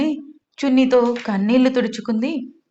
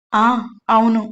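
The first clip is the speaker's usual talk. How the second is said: stammering; 3 dB louder than usual. A narrator's reading. Amar caught out by Amala, stammering a flustered yes. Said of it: "అని తడబడుతూ".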